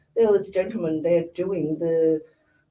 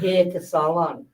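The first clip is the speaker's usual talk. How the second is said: slowly and clearly spelled out; slow, careful repeat for clarity; slower than usual. Shown as a demonstration. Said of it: "The whaty whaty?".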